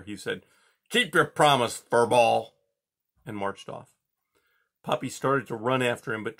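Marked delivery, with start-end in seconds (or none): 0.9-2.5 louder, menacing warning; glaring warning. A narrator's reading. Porcupine warns Poppy as he leaves, glaring. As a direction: threaten her on the way out. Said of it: "With a final glare".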